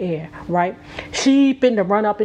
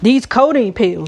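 louder, punched dramatic delivery; dramatic emphasis; 3 semitones higher, 7 dB louder than usual. Pretend. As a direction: hit "These codeine pills" big and possessive. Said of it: "I got to, I got to do it".

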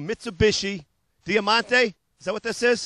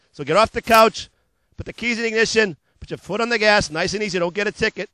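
punchy pitchman patter, loud on the hooks; hard-sell ad read; 3 dB louder than usual. Acted. Car dealer pitching used cars to TV viewers, hard-sell ad voice. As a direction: sell it like a late-night car ad.

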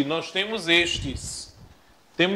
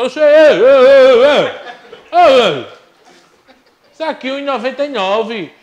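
outraged shout; 7 semitones higher, 13 dB louder than usual. Acted. Husband revolts at rice price.

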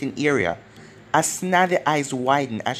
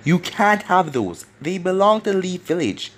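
a touch of a yell, slightly raised; mild yell; 4 semitones higher than usual. Acted. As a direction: push it out a little, protesting. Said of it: "yelled Hayashi".

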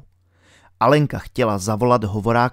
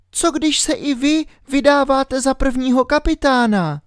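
put-on high, doubtful girl's question; suspicious girl Alenka; 12 semitones higher than usual. A narrator's reading. Alenka doubts the captain, in a high girl's voice. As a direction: question him warily as a little girl.

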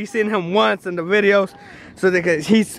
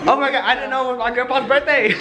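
laughing; 3 semitones higher, faster than usual. Real, not acted. Surprised by birthday.

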